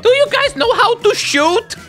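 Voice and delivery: high, laughing, slow mockery; laughing taunt. Real, not acted. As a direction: tease them through laughter. Mocking other players, laughing.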